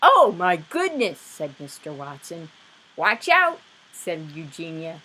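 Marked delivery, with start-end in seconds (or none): 0.1-1.2 louder, higher gasp of wonder; amazed. Acted. Husband amazed at the piglet, loud. 3.0-3.6 much higher, louder alarm; warning cry. Acted. Neighbour warning the family, loud.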